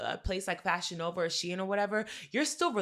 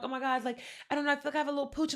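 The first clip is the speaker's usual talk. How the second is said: mock client; 5 semitones higher, 4 dB quieter, much faster than usual. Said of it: "they're like".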